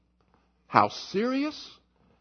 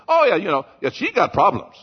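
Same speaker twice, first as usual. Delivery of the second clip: mock spouse; 6 dB louder than usual. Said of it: "husbands and wives who say that".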